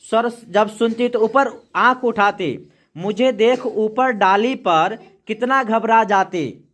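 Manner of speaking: slow, measured poem reading; poem recitation. Acted. Teacher reading a poem to the class, slow recitation. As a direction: recite the verse slowly for the class.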